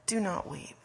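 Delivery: soft, gentle consoling; compassionate. Acted. Jesus comforting the grieving at a friend's loss, compassionate. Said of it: "God's voice of compassion".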